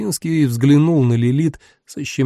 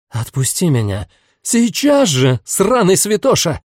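growling chained demon; 5 semitones higher than usual. Acted. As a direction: snarl at the saint in rage. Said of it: "яростный рык".

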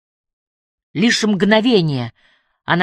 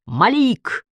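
high raised call; megaphone shout; 6 semitones higher than usual. A narrator's reading. Emily shouts to Malik again, megaphone call. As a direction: call his name across the water. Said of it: "снова закричала она в мегафон".

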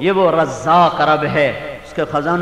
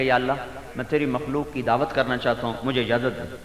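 soft, lower, reverent plea; humble request; 4 semitones lower, 7 dB quieter than usual. Retold or imitated. Solomon humbly asking God for leave, hushed. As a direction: ask permission softly.

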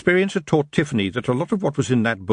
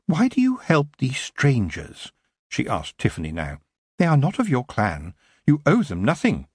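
lightly voiced aloof elf, questioning; cold elf; 3 semitones higher than usual. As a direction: elf questioning Tiffany, cool and detached.

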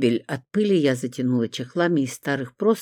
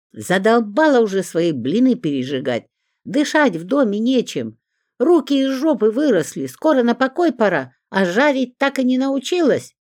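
scolding that climbs ever higher and louder; angry rant; 8 semitones higher, 4 dB louder than usual. A narrator's reading. Zinka scolds the neighbour over the burnt pancakes, rising to high angry ranting. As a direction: berate her, rising into a shrill tirade.

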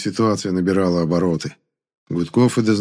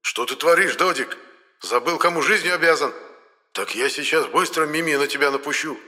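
menacing hiss; 6 semitones higher than usual. A narrator's reading. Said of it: "грозно зашипел".

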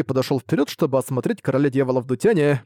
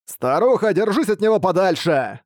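warning shout; 5 semitones higher than usual. Acted. Blind man warns old woman.

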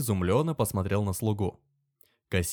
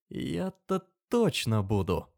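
caustic; 4 semitones higher, slower than usual. Acted. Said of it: "произнёс он едко".

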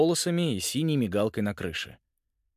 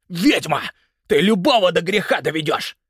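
громко, с обидой; огрызается на жену; злой крик; 7 semitones higher, 6 dB louder than usual. A narrator's reading. Муж кричит в ссоре. (муж в ссоре громко огрызается на жену)

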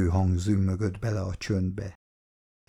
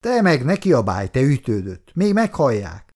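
hushing; 5 semitones higher, 4 dB louder than usual. Acted. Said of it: "csitította a parancsnoka".

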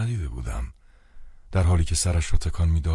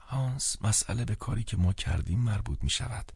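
softer, higher-pitched woman's line; lowered voice; 6 semitones higher, 5 dB quieter than usual. A narrator's reading. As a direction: say it softly, a little raised in pitch. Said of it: "ماری با صدایی آهسته تر گفت".

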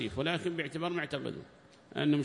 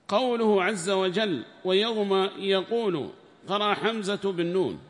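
raised, higher recitation voice for the quoted book; formal text reading; 7 semitones higher, 7 dB louder, slower than usual. Acted. Sheikh reading the tafsir book aloud to students, raised formal reading voice. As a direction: declaim the commentary text like reading to a class.

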